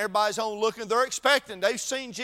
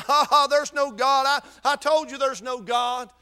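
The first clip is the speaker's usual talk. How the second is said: mocking laugh; 3 semitones higher, 4 dB louder than usual. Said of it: "just laughing, mocking him".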